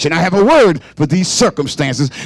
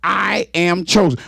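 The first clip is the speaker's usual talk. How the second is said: declaring chosen. Shown as a demonstration. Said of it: "let the devil know".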